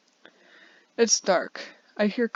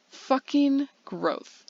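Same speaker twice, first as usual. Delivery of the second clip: bitter curse; 6 semitones higher, much slower than usual. Acted. Bitter outburst.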